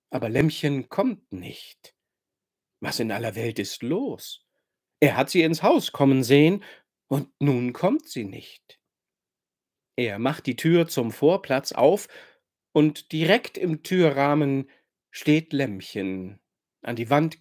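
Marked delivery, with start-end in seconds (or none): none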